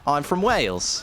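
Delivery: playful guess at a Welsh accent; amateur Welsh impression; attempted Welsh accent. Shown as a demonstration. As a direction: try to sound like you're from Wales. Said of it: "Is it something like this?".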